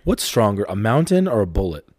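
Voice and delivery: dad imitating daughter in the car; curious child. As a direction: ask it like a curious little girl. Father voicing daughter's question.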